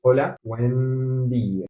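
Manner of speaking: slowly spelled out greeting; slow demo. Shown as a demonstration. Teacher to learners: slow, careful greeting. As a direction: say Hola, buen día slowly, word by word. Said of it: "You would say something like this".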